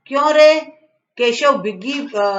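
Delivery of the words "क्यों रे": sharp, higher and louder; mother catching her son out, stern sharp demand. Retold or imitated. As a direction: snap the question at the guilty boy. Mother confronts son over eggs.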